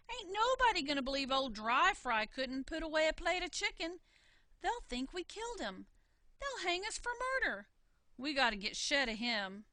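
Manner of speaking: fretting they'll be blamed; husband's alarm rising as he talks; panicky husband. Acted. Husband panicking over corpse.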